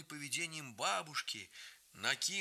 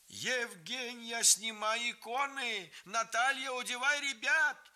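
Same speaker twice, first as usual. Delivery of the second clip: stern commands; 9 semitones higher than usual. A narrator's reading. Grandmother ordering the women during the fire, stern. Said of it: "Строго, крепким голосом командовала бабушка".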